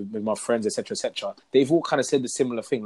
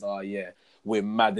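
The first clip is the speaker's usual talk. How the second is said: mock confession; 4 semitones lower than usual. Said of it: "women will come out and realize".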